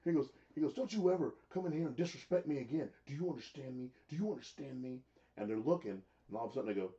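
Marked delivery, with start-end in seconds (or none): 0.7-5.0 mock threat. Retelling threat.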